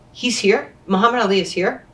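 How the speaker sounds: mild stunned double-take, pitch lifted; retold disbelief. Athlete learns Muhammad Ali is upstairs, mildly incredulous. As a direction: re-enact an astonished question.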